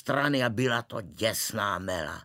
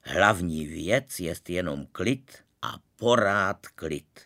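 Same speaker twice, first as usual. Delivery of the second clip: calm doctor; 4 semitones lower, slower than usual. Acted. Doctor calming family.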